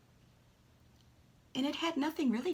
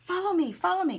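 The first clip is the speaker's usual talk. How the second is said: higher, louder duck plea; voicing the duck; 9 semitones higher, 8 dB louder, faster than usual. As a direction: call out like a duck begging you to follow. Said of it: "as if to say".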